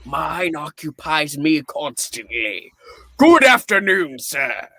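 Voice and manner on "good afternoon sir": sharp, louder and fast; curt dismissal. Acted. Scrooge dismissing the charity gentleman, curt loud goodbye. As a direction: cut him off and show him out.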